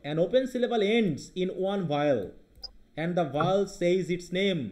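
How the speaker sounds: slow rule reading. Shown as a demonstration. Teacher reads rule aloud.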